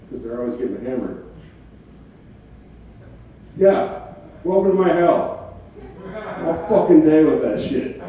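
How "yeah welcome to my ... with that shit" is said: exasperated. Real, not acted. Mock exasperated rant.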